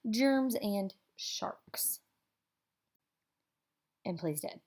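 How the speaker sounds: drawn-out whisper; slow whisper. A narrator's reading. Storyteller whispering the last fears away.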